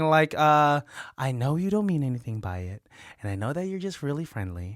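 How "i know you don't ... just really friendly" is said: soft, slightly lower, careful reassurance; imitated gentle reproach. Retelling Melissa's talk about flirting, gently reassuring. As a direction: let them down easy, softly. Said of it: "Melissa has talked to me".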